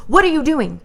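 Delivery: mock yell. Officer confronts her at window.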